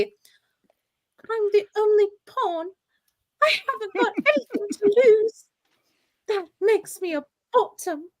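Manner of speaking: dramatic performance. Pretend. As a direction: play it grand while cracking up. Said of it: "performance would be".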